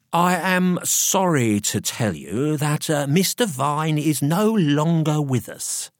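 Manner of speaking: high, slow, drawn-out bad news; officious solicitor, ill-concealed glee. A narrator's reading. Solicitor announcing a death to staff, poorly hidden glee. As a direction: break the news slowly, relishing it. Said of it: "with ill-concealed glee imparted the news".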